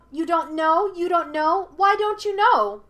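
put-on high, loud childlike jeering; taunting monkey spirit. A narrator's reading. Monkey spirit ridicules Yue's ignorance, high and jeering. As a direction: jeer in rising questions.

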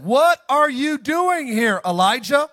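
slow, drawn-out booming question; God's question. Acted. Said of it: "guess what God said?".

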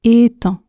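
"Est un" linked with a sounded t; liaison. Shown as a demonstration. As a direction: join "Est un" as è-tun, t pronounced. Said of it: "Je fais la liaison". (« Est un » avec liaison en t)

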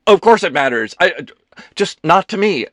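loud, halting, climbing in pitch; flustered backpedalling. A narrator's reading. Ethan digging himself out of a blunder, increasingly frantic. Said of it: "tried to dig himself out of this blunder".

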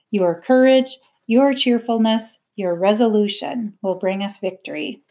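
measured poster slogan read aloud, each YOUR phrase set apart. A narrator's reading. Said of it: "Miss Smith read it aloud".

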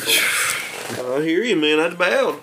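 high, laughing through the words. Real, not acted. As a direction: giggle while you say it. Laughing over bowing to beast.

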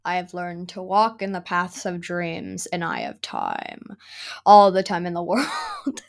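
menacing dream-walker voice; ominous villain quote. Acted. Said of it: "Should I start with a mysterious quote?".

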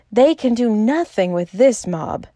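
ordinary delivery

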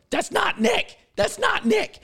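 high, alarmed cry repeated; alarmed mom voice. Retold or imitated. Mom in the house panicking, high alarmed cry. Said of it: "the next thing you hear, go".

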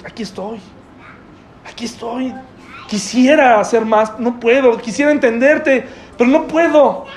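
tender presence. Retold or imitated. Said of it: "sentarnos y decir".

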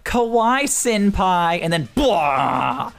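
slow, breathy anime swoon; anime girl voice. Retold or imitated. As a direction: coo it like an anime fan. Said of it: "You're like".

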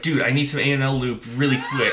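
fast, urgent ask shouted across the shop; hurried call-out. Retold or imitated. New guy asks the parts counter, fast and urgent. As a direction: rush it out, a little shouted. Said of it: "he's like".

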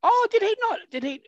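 high surprised gasp of a question. Real, not acted. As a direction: sound caught off guard. Surprised at Bowen news.

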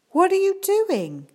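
high, loud challenge; demanding. A narrator's reading. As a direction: confront her, demanding an answer. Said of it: "she demanded".

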